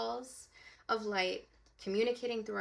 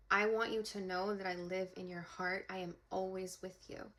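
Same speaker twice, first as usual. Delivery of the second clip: tender reassurance; 5 dB quieter than usual. Retold or imitated. Dad saying goodbye to his daughter in the dream, tenderly. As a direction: gently reassure a loved one. Dad's parting words in dream.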